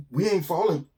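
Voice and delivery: hushed, stunned "We ain't falling". Acted. Animals realise they float.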